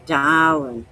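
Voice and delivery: darling said as "dahlin'"; darling in a Maine accent. Shown as a demonstration. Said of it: "they say".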